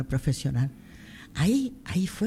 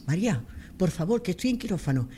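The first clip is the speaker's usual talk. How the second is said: quoted surgeon in a rush, higher and urgent; doctor con prisa; 4 semitones higher than usual. Retold or imitated. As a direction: hurry her along like a busy surgeon on the phone. Doctor urgente por teléfono. (médico apurado pidiendo la radiografía)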